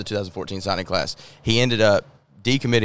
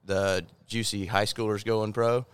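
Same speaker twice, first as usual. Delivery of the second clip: off mic; 7 dB quieter than usual. Real, not acted. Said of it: "Get as close to that thing as you can for me".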